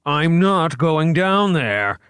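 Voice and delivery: high, slow desperate cry; cried out. A narrator's reading. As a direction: plead in terror. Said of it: "Wright cried".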